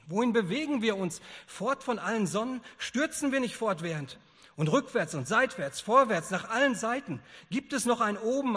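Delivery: loud, high, building rhetorical questions; impassioned preaching. Acted. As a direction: preach it with mounting alarm. Madman's speech preached at full force. (leidenschaftlich und laut gepredigt)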